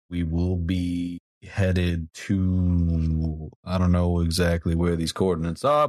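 cheesy pilot over the intercom; PA announcement. Acted. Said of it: "the P A saying".

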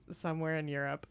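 a drifting accent sliding somewhere across Europe; blended accent. Shown as a demonstration. Talking about doing voices, a lightly drifting European accent. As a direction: start Irish and let it wander off somewhere in Europe. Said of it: "try to do voices and they'll just blend".

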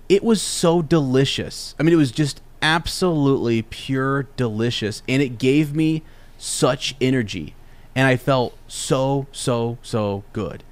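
slow, dreamy praise of the taste; mild blissful drawl; savoring it. Retold or imitated. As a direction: linger on how good it felt. Savoring cold brew first taste.

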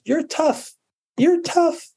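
put-on high-pitched mom talking to her baby; imitated coaxing mom. Mom to baby who falls down, imitated high coaxing. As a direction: coax a fallen baby in a high little voice. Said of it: "And the mom says".

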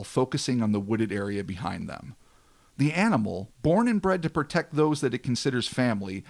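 measured storyteller read, falling at sentence ends; dramatic story narration. A narrator's reading. Host tells of a hulking thing watching them, dramatic narration. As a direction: narrate an eerie tale with weight.

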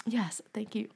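soft breathy whisper. Real, not acted. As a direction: whisper it up high. Whispered thanks.

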